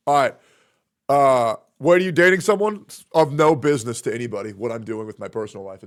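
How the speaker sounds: loud, emphatic, like introducing fighters; forceful ringside announcer cadence; ring announcer delivery. Real, not acted. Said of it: "stuck introducing fighters in a ring".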